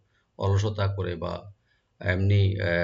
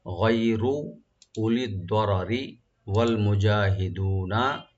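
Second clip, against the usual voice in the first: slow recitation; slower than usual. Shown as a demonstration. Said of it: "রা এখানে আমরা deep করে পড়বো".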